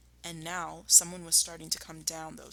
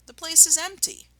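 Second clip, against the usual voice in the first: puzzled Badger; 10 semitones higher, 7 dB louder than usual.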